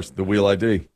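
"Wheel" with W in place of R; "Wheel" for "real", imitating her; mimicked speech impediment. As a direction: echo the W-for-R slip in "Wheel". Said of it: "put as many of those sounds".

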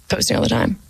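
breathy whispered repeat under the breath; whispered aside. Real, not acted. Muttered self-aware repeat.

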